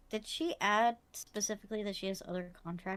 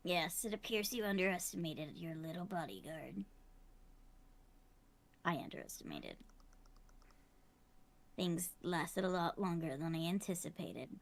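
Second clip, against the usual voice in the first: gravelly villain voice. Acted. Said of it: "This gravelly voice that I do for her".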